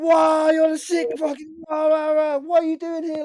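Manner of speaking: very high, loud excited yelling; retold freak-out, shouted high; imitating wiling out. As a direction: yell it like an amazed fan. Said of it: "He starts wiling out again".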